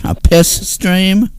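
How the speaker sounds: slow, stretched, rising on stream; drawn-out mock question. Real, not acted. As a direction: savour the joke slowly. Repeats the joke drawn out.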